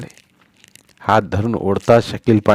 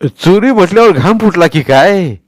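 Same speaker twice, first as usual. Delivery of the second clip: put-on old Patil's voice; 8 semitones higher, 8 dB louder than usual. A narrator's reading. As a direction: boom down at the little boy from the well. Patil teases Sonya.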